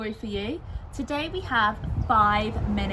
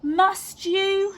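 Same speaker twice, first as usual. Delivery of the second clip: higher, louder weary protest; reluctant; 10 semitones higher, 6 dB louder than usual. A narrator's reading. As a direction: groan it like a tired mother. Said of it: "she asked".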